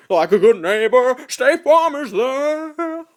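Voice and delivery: badly faked crooner, high and drawn out; loud, high, stretched-out mock singing; a famous singer. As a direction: belt a jingle in a bad celebrity impression. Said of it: "I can't do Elvis right".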